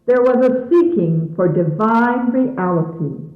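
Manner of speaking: formal radio narration over music; stately announcer voice introducing a sermon; announcer read. Acted. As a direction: read it like a solemn broadcast introduction.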